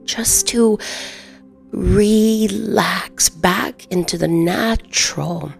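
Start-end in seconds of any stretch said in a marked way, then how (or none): 0.0-3.3 whispering. Acted. Whispered words in meditation.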